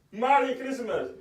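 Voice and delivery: slow, "Merry" drawn out as "Mari"; altered "Mari" pronunciation. Retold or imitated. Preacher quoting the bad reply, "Merry" slowly said as "Mari". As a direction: stretch "Merry" into an open "Mari". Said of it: "Mari meaning bad".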